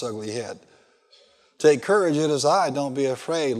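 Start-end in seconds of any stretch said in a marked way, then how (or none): 1.6-3.6 louder, ringing call of courage; preacher booming the Lord's reassurance; proclaimed. Acted. Preacher to congregation, louder proclaiming Jesus' words.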